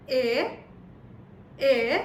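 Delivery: "E" said as a long German ay; German letter E. Shown as a demonstration. Teacher shows how the German E sounds. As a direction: model "E" as ay. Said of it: "E in German is pronounced as".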